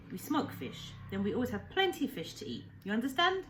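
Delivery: lightly voiced old fisherman, eager and kind; old Japanese man, broken English. Old man cheerfully explaining fishing to the boy, lightly accented. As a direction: speak as a proud old man telling the boy his plans.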